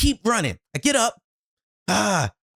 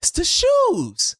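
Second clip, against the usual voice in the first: exasperated blame; 10 semitones higher than usual. Retold or imitated. Blaming shoes in retelling.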